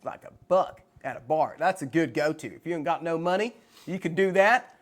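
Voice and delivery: casual Texan accent, chatting about beer; lightly performed Texan accent. Shown as a demonstration. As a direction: put on an easygoing Texas twang. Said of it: "I can do a Texan accent".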